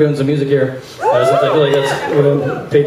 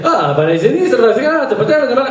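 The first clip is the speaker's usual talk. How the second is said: rattled-off Italian directions, climbing in pitch; mock Italian accent, rising as it repeats; Italian local; 8 semitones higher, faster than usual. Italian man answering a tourist's question, rattled-off Italian. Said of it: "The guy would say".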